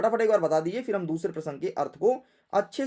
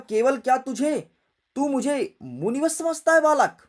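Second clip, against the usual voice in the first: indignant challenge, raised pitch; Parashuram; 5 semitones higher, 4 dB louder, faster than usual. Acted. Parashuram challenges the boy who takes him for a sage, indignant. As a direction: demand it, higher and insistent. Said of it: "परशुराम जी अपने फरसे को देख करके बोले".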